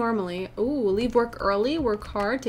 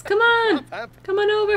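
calling out; 9 semitones higher than usual. Real, not acted. Calling the neighbor over.

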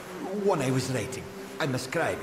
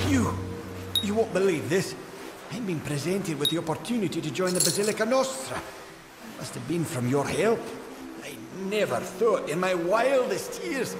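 excited; 4 semitones higher than usual. Acted. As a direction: gush about the good news. Gnome thrilled about joining Basilica.

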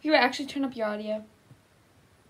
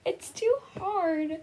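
slow, higher mock-weepy voice; mock grieving; 5 semitones higher, slower than usual. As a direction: drag the words out in pretend grief. Voicing grieving mother in game.

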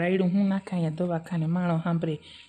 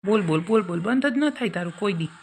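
scolding; 2 semitones higher, 4 dB louder than usual. Acted. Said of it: "સાની મની રે હવે".

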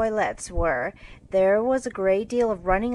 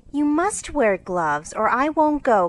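firm ultimatum, rising louder; decided, insistent; 6 semitones higher, 5 dB louder than usual. Acted. Meg insisting to her sister, decidedly. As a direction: put your foot down. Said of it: "cried Meg decidedly".

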